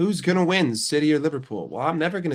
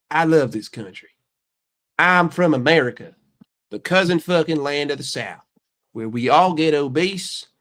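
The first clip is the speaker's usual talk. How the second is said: put-on Southern accent. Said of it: "My Southern accent is good".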